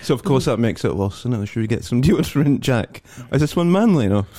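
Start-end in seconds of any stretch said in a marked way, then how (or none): 1.5-4.3 louder put-on fussy shopper voice; higher, louder mock Uncle Alec. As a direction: camp it up asking for the deodorant. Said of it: "The Uncle Alec voice".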